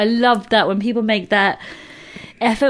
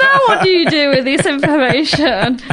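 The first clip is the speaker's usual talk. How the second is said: higher mock-sweet taunt; teasing challenge; 5 semitones higher than usual. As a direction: needle them in a high singsong.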